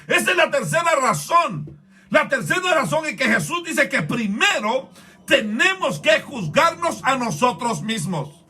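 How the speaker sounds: forceful sermon delivery; emphatic preaching. Real, not acted. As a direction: press the point home to the congregation.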